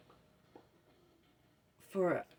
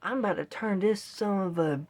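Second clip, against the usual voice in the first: getting mad. Retold or imitated. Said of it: "I mean, I was getting mad".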